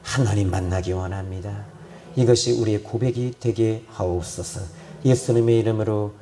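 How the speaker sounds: low, subdued pastoral prayer; closing prayer. Real, not acted. Pastor addressing God the Father for the congregation, subdued prayer.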